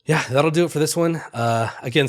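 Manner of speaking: stuffy nose, nasal and blocked; nasal congested voice. Real, not acted. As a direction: speak through a congested nose. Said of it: "my nasally congested voice".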